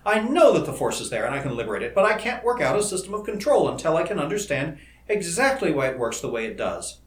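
high, loud, exasperated rant; agitated complaint, easing at the very end; snapping frustration. A narrator's reading. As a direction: vent at your own failure, worked up. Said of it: "he snapped".

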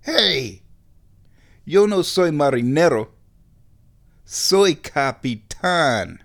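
tough guy swagger in Spanish; fake tough guy voice. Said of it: "sort of in a fake tough guy voice".

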